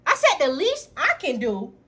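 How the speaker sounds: building to a loud, high furious rant; losing my mind. Retold or imitated. Sister yelling at freeloading brother, furious. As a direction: let the rage climb to a yell. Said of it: "I literally lost my motherfucking mind".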